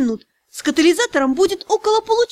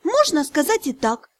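melancholic. Acted. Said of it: "меланхолично отозвалась я".

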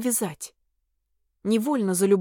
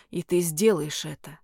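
low, firm lightly voiced demon; a hint of a domineering demon; 5 semitones lower than usual. A narrator's reading. Demon's commanding line.

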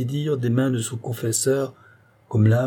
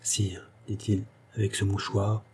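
respectful tone; 7 dB quieter than usual. A narrator's reading. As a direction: speak humbly to the king. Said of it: "d'un ton respectueux".

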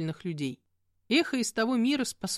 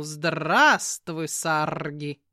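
a joyful greeting, called out louder; glad call; 4 semitones lower, 4 dB louder, much slower than usual. Acted. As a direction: call out happily to an old friend. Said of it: "радостно крикнул". (радостный оклик)

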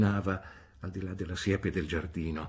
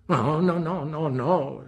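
quick, higher, louder no's; hurried exclamation; 9 semitones higher, 5 dB louder, slower than usual. A narrator's reading. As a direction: hastily stop the tears. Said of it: "esclamò in fretta Miss Betsy".

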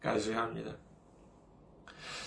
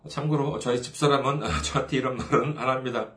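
normal talking voice

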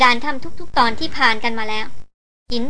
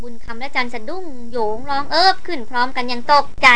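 ordinary delivery, nothing marked

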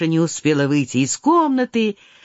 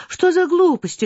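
put-on higher, indignant girl guarding what is hers; possessive protest; 10 semitones higher than usual. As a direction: defend it as if someone takes your property. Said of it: "тоном человека, у которого хотят отнять".

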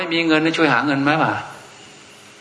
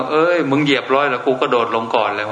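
laughing quote. Retold or imitated. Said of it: "หลวงพ่อคูณยังบอกว่า".

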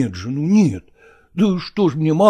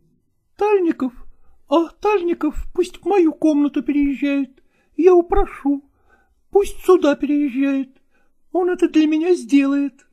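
higher, brisk and insistent; insistent actress; 11 semitones higher than usual. A narrator's reading. Nastina dismisses the neighbour problem, higher insistent voice. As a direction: wave his objection away.

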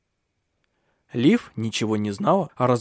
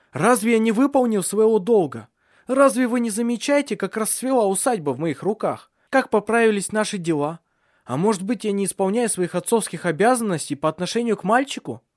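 higher, raised self-defense; indignant; 8 semitones higher, 3 dB louder than usual. A narrator's reading. Son indignantly defending himself to his mother. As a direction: bristle and defend yourself. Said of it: "Таральд возмутился".

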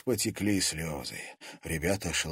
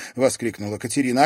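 plain reading voice

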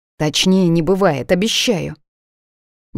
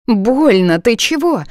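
hiss; 7 semitones higher, 4 dB louder, slower than usual. Acted. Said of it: "шипит Алька".

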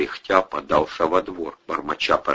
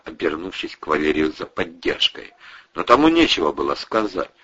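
ordinary talk

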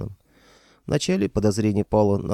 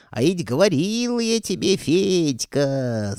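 wailing ghost; 8 semitones higher, slower than usual. Acted. Old ghost scolding Fedka, howling. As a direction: wail it like an ancient spirit. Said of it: "завыл древний призрак".

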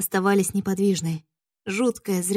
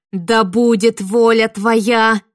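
bold prayer; 7 dB louder, much slower than usual. Acted. Girl prays boldly against witch.

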